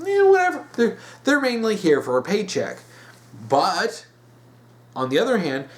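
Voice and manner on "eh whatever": high, loud, dismissive shrug of a voice; mock indifference. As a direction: toss it off like you couldn't care less. Mimicking directors who don't care.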